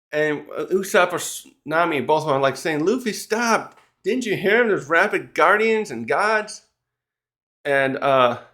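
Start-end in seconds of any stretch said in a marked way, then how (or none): 2.8-6.6 higher-pitched mock yell; calling after him. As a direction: friends chasing, yelling for Luffy to stop. Friends shouting after Luffy.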